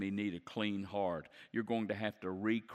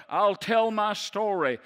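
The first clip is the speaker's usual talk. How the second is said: much higher and louder cry of I'll tell my story; preaching shout; 11 semitones higher, 11 dB louder than usual. Acted. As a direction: belt I'll tell my story at the top of the climax. Peak of the sermon climax.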